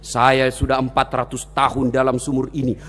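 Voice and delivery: ponderous deep jinn; big jinn. Acted. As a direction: intone it as the hulking well demon. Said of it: "ada makhluk besar, tinggi, gemuk".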